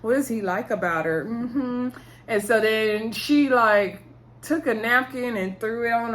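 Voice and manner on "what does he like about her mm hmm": lightly imitated sarcastic voice; mock agreement with pointed hums. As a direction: feign interest while doubting every word. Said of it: "started talking in a sarcastic voice".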